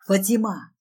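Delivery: understated acted shout; guard's shout. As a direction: call out for help from the housekeeper. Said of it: "кричит мой охранник".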